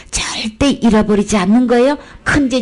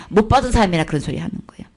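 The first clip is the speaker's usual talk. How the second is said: ordinary talk, nothing marked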